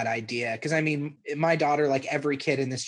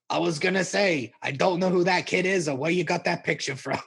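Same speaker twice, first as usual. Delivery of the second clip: lightly voiced Stan impersonation; Stan quote; 3 semitones higher than usual. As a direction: put on a slightly affected, annoyed quoting voice. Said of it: "and he's like".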